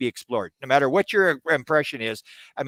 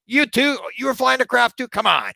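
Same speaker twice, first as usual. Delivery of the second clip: much higher and louder, exasperated disbelief; incredulous; 11 semitones higher, 5 dB louder than usual. Retold or imitated. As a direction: squeal it, then scoff. Another witness says same claim.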